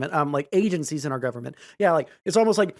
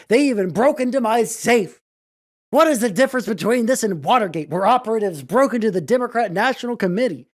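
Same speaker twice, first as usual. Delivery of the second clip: higher, louder hammed-up reading; mock Trump read; 4 semitones higher, 3 dB louder than usual. Shown as a demonstration. Streamer mocking Trump's statement, higher and louder. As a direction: ham up his outrage.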